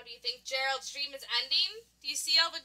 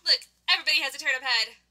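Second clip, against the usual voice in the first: excited; 4 dB louder, much faster than usual. Acted. Gasp, excited discovery.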